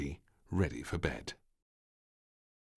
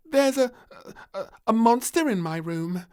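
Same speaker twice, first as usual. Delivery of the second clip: matter-of-fact; 10 dB louder than usual. Acted. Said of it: "said little Princess matter-of-factly".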